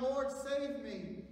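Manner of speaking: loud, high, drawn-out plea; crying out. A narrator's reading. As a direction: cry to the Lord at full voice. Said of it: "cried out".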